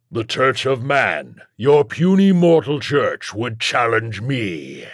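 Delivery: slow, mocking demonic boom; drawn-out, grandiose demon taunt. A narrator's reading. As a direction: boom scornfully over the rooftops. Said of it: "the voice boomed over the rooftops".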